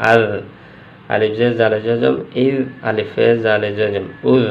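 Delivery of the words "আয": "আল" ending in a soft z-like zal. Shown as a demonstration. Teacher demonstrating zal, "আল" with soft z ending. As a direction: soften the last consonant of "আল" into a gentle z. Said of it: "উচ্চারণটা জাল উচ্চারণ নরম".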